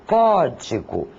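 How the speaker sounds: "código" with the weight on "có"; clearly stressed opening "có" in "código"; stress on first syllable. Shown as a demonstration. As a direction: lean on the first syllable, CÓ-digo. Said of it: "intensidade maior é dada".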